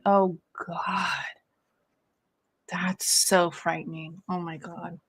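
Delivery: whispered in real fright, slow; a scared, slow whisper; hushed whisper. Real, not acted. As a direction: breathe it out, spooked. Scary scream story, hushed reaction.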